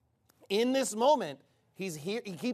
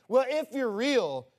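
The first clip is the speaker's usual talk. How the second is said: spiteful; 2 semitones higher, 4 dB louder than usual. Retold or imitated. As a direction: imitate a grudging dare to God. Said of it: "being spiteful".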